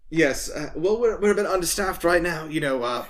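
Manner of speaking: lightly voiced grumbling guard. Guard complaining about staff shortages, comic grumble. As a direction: play a guard griping, breaking into laughter.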